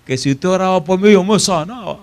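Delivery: a hint of the mother, pitched high; mother repeating her promise, voiced up; imitating the mother. Mother recalls her prediction.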